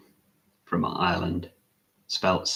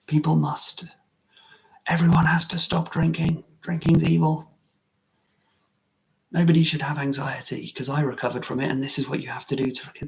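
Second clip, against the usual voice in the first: mock preachy yell; 8 semitones higher than usual. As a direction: shout it like a pushy street preacher. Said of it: "if I went out and tried to yell".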